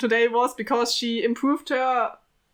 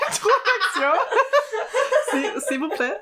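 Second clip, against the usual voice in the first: higher, hammed-up French "Introduction", then "S'il, s'il vous plaît"; a failed French accent, pitched up; bad French accent; 10 semitones higher than usual. Shown as a demonstration. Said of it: "I cannot do the French accent".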